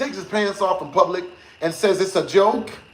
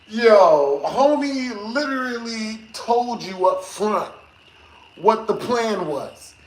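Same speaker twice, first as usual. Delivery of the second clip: incredulous; slower than usual. Retold or imitated. Telling girlfriend off, slow incredulous. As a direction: spell it out slowly, stunned. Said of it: "And I'm like".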